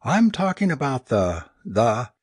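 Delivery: hesitate, struggling to get it out; painful gulping hesitation. A narrator's reading. Tristan confesses his career plan to friends, painfully hesitant. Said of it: "he gulped painfully".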